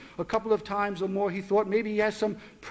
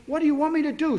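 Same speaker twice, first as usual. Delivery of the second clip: higher, louder outburst; exasperated snap; 8 semitones higher, 5 dB louder, faster than usual. Acted. Father snapping at daughter over reminders, exasperated. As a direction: throw the question back at her.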